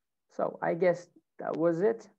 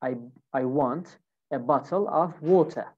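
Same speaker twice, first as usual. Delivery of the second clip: British accent with a crisp T in bottle and water. Shown as a demonstration. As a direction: demonstrate British pronunciation, dropping the R in water. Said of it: "So here in British accent, I would say".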